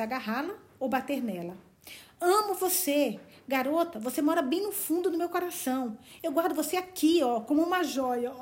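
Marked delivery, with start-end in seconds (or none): 2.2-8.3 a hint of a lover pouring his heart out; impassioned Barney. Barney declaring his love to Valancy, impassioned. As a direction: declare love, rising and pleading.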